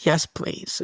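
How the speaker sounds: soft little whispered yes. Retold or imitated. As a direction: breathe it like a sleepy scared child. Scared toddler asks dad stay.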